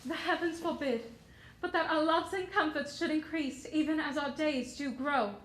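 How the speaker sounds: lightly voiced Shakespearean verse; Desdemona reciting verse. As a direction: speak the verse tenderly to Othello. Actress reciting Desdemona's lines.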